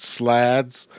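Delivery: "Slads" for sleds, Canadian vowel; Canadian accent. Shown as a demonstration. Host misreading a holiday email, Canadian-accented "Slads". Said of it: "and I felt very Canadian".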